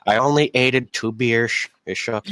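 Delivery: slurred, badly faked drunk voice; hammed-up drunk trying to sound sober; fake drunk. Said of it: "You're awful at faking being drunk".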